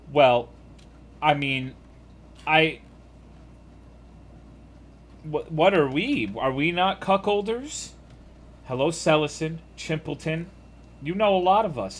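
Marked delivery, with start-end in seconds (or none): 0.1-7.9 mock indignant. 11.0-12.0 playful mock. Playful high retort.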